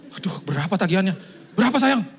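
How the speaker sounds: high, loud worried asking; anxious pleading. Retold or imitated. Anxious asking wife the bill. (cemas bertanya, suara tinggi dan keras)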